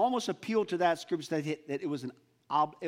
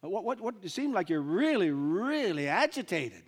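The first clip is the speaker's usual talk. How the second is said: a hint of a concerned stranger asking; curious stranger; 3 semitones higher than usual. Stranger questions the two troubled disciples, lightly voiced. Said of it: "he looks at him and said".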